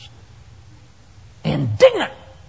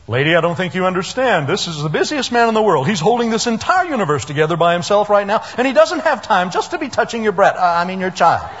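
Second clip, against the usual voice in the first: dismissive apostle; 2 semitones higher, faster than usual. Acted. Apostle brushing off a mother.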